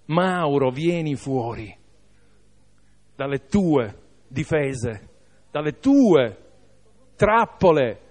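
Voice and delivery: restrained, tender invitation; loving call. Acted. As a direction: call someone out gently, pausing between phrases. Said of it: "sta gridando di amore".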